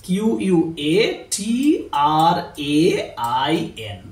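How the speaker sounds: each letter dictated apart; spelling out letters. Shown as a demonstration. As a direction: spell the word out for students. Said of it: "বলা হয় কোয়াট্রেন".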